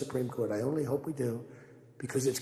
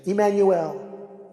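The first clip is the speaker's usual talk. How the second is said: put-on French-accented name; 5 semitones higher, 6 dB louder, much slower than usual. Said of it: "I love the French accent".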